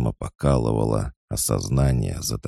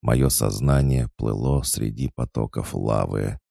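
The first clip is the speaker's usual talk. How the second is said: ordinary delivery, nothing marked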